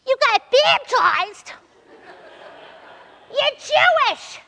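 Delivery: high, loud, slow incredulous shriek; a sister aghast at the news; hammed-up disbelieving sister; shocked sister. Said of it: "His sister goes".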